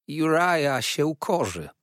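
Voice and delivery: high, slow cry; pleading cry. A narrator's reading. Old mother calling out for her son, high drawn-out cry. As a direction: call it out high, stretching each word. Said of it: "wołała stara".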